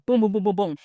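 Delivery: rapid string of imitated thuds; imitated door banging. She hears banging at five in the morning, imitated thuds. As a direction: pound out the knocks with your voice. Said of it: "hears, like, banging on her door".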